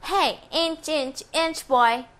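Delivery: put-on high teasing chant of kids; mocking taunt. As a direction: tease him like schoolyard boys. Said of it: "made fun of him".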